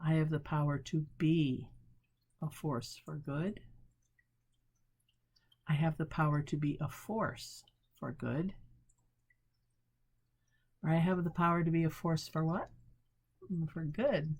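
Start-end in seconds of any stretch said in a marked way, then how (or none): 0.0-3.6 weight "be" before a short pause; softer close on "a force for good"; stress on be. Shown as a demonstration. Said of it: "Change the emphasis". 5.7-8.5 "I" lifted, the rest softer; stress on I. Shown as a demonstration. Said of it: "Change the emphasis". 10.8-12.7 quick, rising "what?" to prompt listeners; faster, with a questioning rise on "what"; leading question. Shown as a demonstration. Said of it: "Change the emphasis".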